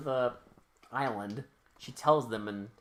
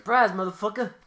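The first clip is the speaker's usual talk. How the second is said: higher, louder gleeful catchphrase; mock ambush shout; 6 semitones higher, 7 dB louder than usual. Podcaster acting out a surprise attack, mock triumphant shout. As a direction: burst out with it as a playful gotcha.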